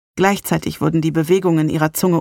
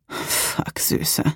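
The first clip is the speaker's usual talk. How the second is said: breathy whisper; 6 dB quieter than usual. Acted. Narrator curses in pleasure.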